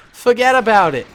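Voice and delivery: high, loud burst of enthusiasm; enthusiastic gushing. Real, not acted. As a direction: dismiss any doubt with excited force. Gushing over the armor design.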